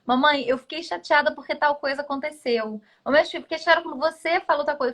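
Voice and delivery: a hint of a child confiding in mum; imitating daughter. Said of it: "minha filha vira pra mim e fala assim".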